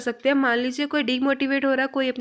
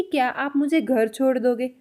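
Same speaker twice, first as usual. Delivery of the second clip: an even, polite Hindi question. Shown as a demonstration. Teacher demonstrates how Hindi is spoken, polite and even. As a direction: ask it politely, without pushing the voice. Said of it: "Hindi बोलते समय हम polite way में".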